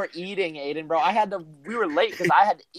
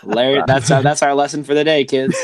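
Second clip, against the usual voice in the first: mock PSA voice; 7 dB louder than usual. Mock moral for the kids.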